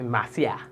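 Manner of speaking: Marcia chopped into two hard open syllables, MAH-syah; chopped-up name. Retold or imitated. Host mimics how people say Marcia, chopping it up. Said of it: "People are very chop up your name".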